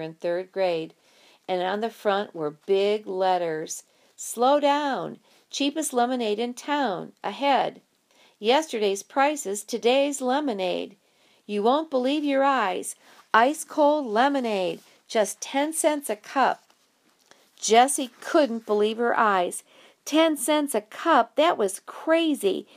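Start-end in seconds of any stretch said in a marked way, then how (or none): 4.2-16.6 sign read out. Acted. Reading the sign aloud. 20.0-22.7 disbelief. Acted. Jessie astonished at the price.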